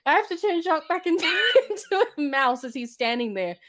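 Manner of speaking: high, flustered fairy godmother; high scatterbrained fairy voice. Retold or imitated. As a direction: play her panicking for the spell.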